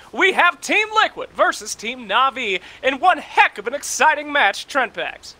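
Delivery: big hammed-up esports announcer delivery. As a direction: sell the match like a ring announcer. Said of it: "I can put on my announcer voice".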